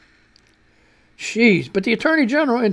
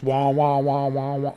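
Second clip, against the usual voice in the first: mock ear ringing; 7 semitones lower, 4 dB quieter, slower than usual.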